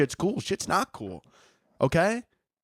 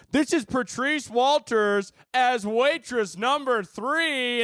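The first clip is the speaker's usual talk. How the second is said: slow, high loudspeaker announcer; 7 semitones higher, much slower than usual. Retold or imitated. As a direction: announce it over the speakers. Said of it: "you hear over the loudspeakers".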